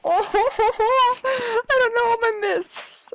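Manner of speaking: high laughing wail. Real, not acted. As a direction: laugh through the words. Laughing outburst.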